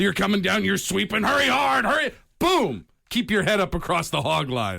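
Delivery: excited yelling of a curling sweep; mock curling call. Host acting out a full contact curling run, excited yell. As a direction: shout it like a curler mid-sweep.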